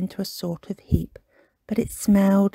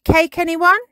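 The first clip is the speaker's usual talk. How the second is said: Kipper offering cake; 10 semitones higher, 6 dB louder than usual. Acted. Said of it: "so he said".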